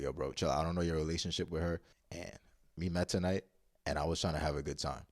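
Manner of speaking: low, unbothered explanation; retold calm reply. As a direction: reason with an angry stranger, keeping it level. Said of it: "I said it just like that".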